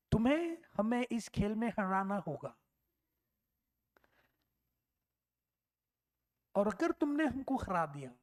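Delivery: the British captain laying down terms in a hint of British accent. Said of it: "वो अपने British accent में बोलता है". (हल्का ब्रिटिश लहजा, धीमा और ठहरा हुआ)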